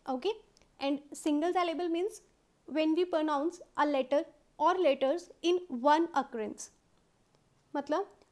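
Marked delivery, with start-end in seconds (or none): 0.8-6.7 reading the rule out word by word, very slowly; slow, careful classroom reading of the rule. Shown as a demonstration. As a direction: dictate it slowly like a textbook rule. Reads definition slowly.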